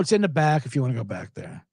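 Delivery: low, unenthused imitation of a diner owner; mock dejected reply; bummed out. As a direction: answer as if fed up with the question. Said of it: "he was really bummed out".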